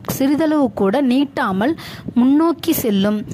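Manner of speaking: textbook read-aloud. Acted. Teacher reads the Quran primer's rule to learners, measured read-aloud.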